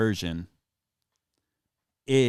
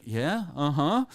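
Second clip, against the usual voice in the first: put-on girlfriend agreeing; 5 semitones higher, slower than usual. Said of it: "She's like".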